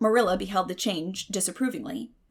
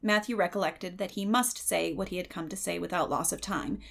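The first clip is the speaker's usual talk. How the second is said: plain reading voice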